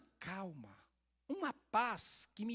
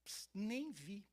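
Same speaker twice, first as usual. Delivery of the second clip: hushed brush-off; 2 semitones higher, 6 dB quieter, much slower than usual. Retold or imitated. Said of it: "eu falei".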